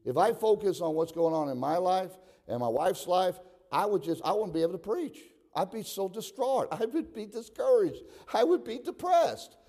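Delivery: mounting, fervent preaching; building pulpit exhortation. Real, not acted. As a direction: pitch climbing phrase by phrase. Preacher builds toward a shout.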